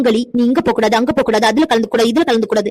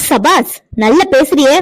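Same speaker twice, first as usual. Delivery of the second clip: sarcastic praise; 2 semitones higher, much slower than usual. Acted. Mother-in-law mocks defiant girl.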